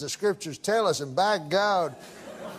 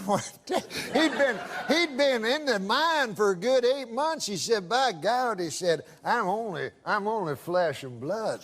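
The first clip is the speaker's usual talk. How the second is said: put-on old prospector. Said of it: "That's how he talks".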